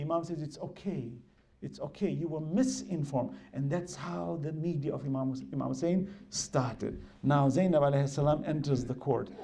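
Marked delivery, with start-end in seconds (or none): 0.4-3.3 retold reassurance. Imam forgives the weeping old man.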